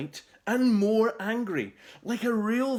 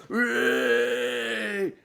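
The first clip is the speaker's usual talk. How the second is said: cheer; 5 semitones higher, 3 dB louder than usual. A narrator's reading. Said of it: "bellowed in approval".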